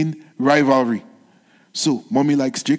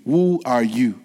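put-on puzzled old father; 5 semitones lower than usual. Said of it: "What a question".

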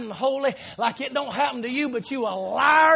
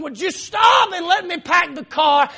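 raised, higher, exasperated voice; retold frustration; 6 semitones higher, 7 dB louder than usual. Dad trying to pack the car around kids, acted frustration. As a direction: act out losing patience. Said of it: "now I'm getting frustrated".

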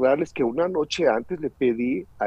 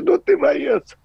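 much higher and louder plea; child pleading; 13 semitones higher, 6 dB louder, slower than usual. Retold or imitated. Son begging his father not to leave, high plea. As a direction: beg like a small boy.

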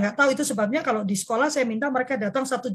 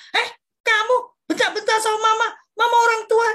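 higher, louder mock scolding of a shouting child; scolding mother; 10 semitones higher, 5 dB louder than usual. Mother scolding a child who shouted at her, mock angry. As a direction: play the offended mum snapping back. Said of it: "nggak begitu".

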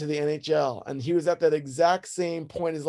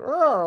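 hillbilly growl; 9 semitones higher, 3 dB louder than usual. Shown as a demonstration. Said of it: "He kinda had this redneck".

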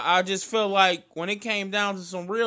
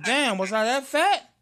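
slow, higher mock shock; mock dismay; 6 semitones higher, 4 dB louder than usual. Friend says his back got small, slow mock dismay. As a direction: pretend to be stung by the news. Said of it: "I said".

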